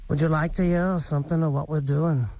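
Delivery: lightly attempted Liverpool accent in the style of a famous singer; a badly faked Liverpool accent; terrible Liverpool accent. Host quoting a famous musician to a guest, mild bad Liverpool accent.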